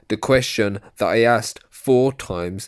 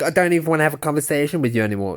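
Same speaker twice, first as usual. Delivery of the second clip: mocking parrot; 5 semitones higher, much faster than usual. Parroting a panelist to mock her.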